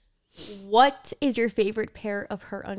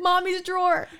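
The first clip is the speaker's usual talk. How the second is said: put-on small child voice; 7 semitones higher than usual. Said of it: "I said".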